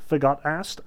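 ordinary talk

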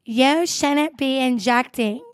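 lightly voiced drunk woman accusing someone; mildly hammed-up drunk confrontation; drunk heckler. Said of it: "This woman was so drunk".

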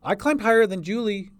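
put-on high, loud little-girl boast; proud through tears. A narrator's reading. Tearful girl brags of climbing to the sister, proudly. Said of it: "she said proudly through the tears".

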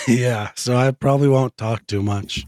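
rough voice from being ill; hoarse sick voice. Real, not acted. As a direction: talk sparingly through a sore throat. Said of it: "your voice sounds real tough".

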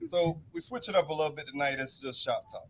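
distant, off-mic voice; talking away from the microphone; far from mic. Real, not acted. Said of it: "you sound like you're far away".

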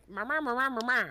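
imitating Mid-Atlantic vowels; mock old movie accent; old-timey movie accent. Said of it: "it's the one where it's like".

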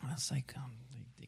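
hushed, breathy storytelling whisper; whispering the lead-in to his parents' reaction; whispered aside. Retold or imitated. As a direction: drop to a whisper as if sharing a secret.

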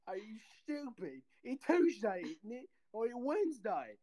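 put-on Texan accent that slips toward English. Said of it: "do your Texan accent".

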